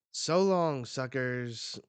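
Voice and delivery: loud, high taunting farewell; gleeful taunt. Acted. Shiki tosses a bomb down, gleeful taunt. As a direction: throw it out high and loud, then drop.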